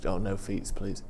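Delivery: put-on light Eastern European accent, soft and low; a hint of an Eastern European accent asking politely. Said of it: "I became Eastern European now".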